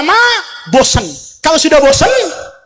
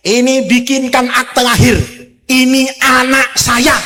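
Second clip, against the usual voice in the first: casual order. Acted. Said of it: "Camat Kedungdung, "Sini kamu".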